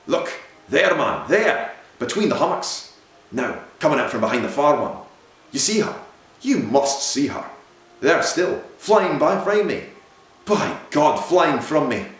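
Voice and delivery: loud, high, urgent pointing cries, voice climbing; frantic excited cries. A narrator's reading. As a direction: shout it out as if seeing a ghost vanish on the ice. Captain sees the vanishing figure.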